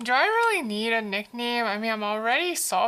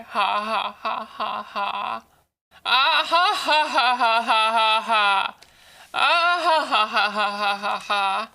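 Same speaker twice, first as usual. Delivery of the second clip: slow loud drawn-out ha ha laugh; exaggerated mock laughter; 6 dB louder, slower than usual. Real, not acted. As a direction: ham up a big laugh at the pun.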